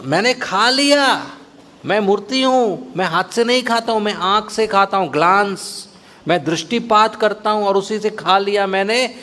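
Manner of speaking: put-on deity Gopinath soothing the crying boy; Gopinath's voice. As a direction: coax the stubborn child kindly as the deity.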